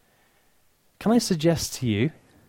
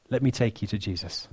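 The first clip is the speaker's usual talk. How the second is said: gentle invitation; 4 semitones lower, 5 dB quieter than usual. Acted. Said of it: "the way the second group responded".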